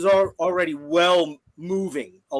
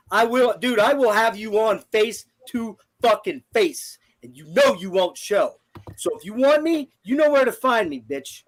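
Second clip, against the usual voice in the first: heated, raised challenge to a troll; angry; 3 semitones higher than usual. Real, not acted. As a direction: call him out, voice pitched up.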